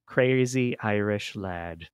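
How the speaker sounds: slow drift into an Irish accent. Real, not acted. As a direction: lightly slip into an amateur Irish accent. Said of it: "Now I started drifting into my Irish accent".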